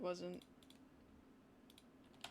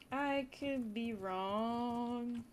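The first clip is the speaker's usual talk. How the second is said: very slow, stretched "I could be wrong"; lazy sing-song hedge; drawn-out; 2 semitones higher, much slower than usual. Shown as a demonstration. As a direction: drag each word of "I could be wrong".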